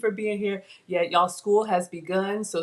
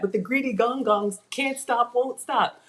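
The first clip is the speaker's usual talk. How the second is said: mock rant; 4 semitones higher than usual. Real, not acted. Mom grumbling to viewers about her greedy kids, lightly mock. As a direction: say "greedy gong gongs" in a quick, half-joking grumble. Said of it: "Okay, rant off".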